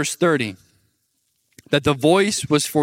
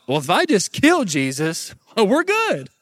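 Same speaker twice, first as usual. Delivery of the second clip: smug devil; 2 semitones higher than usual. Retold or imitated. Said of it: "the devil thought".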